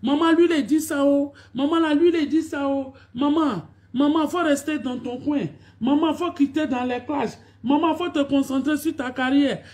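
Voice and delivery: high, insistent imitation of fans calling maman; lightly voiced whiny fans; mock pleading fans. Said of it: "Quand c'est pour venir dire".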